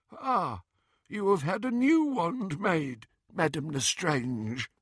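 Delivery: high goblin voice, dreamily agreeable; a goblin under a spell; nasty nasal goblin sneer. A narrator's reading. Bewitched goblin examining the wand.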